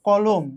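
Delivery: "কলম" set apart, second vowel like ও; closed o vowel. Shown as a demonstration. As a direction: demonstrate "কলম" as kɔ-lom. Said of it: "আর একটা উচ্চারণ হচ্ছে".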